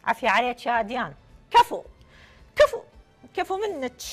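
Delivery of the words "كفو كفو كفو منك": hyped praise. Real, not acted. Host hypes a prize win.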